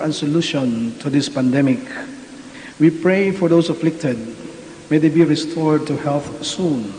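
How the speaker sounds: solemn, measured prayer voice; liturgical prayer. Acted. Priest leads liturgical prayer.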